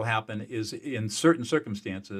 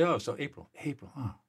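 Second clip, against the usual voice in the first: gentle empathic reflection. Shown as a demonstration. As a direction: talk them gently through their grief, pausing between feelings. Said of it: "And I say something like this".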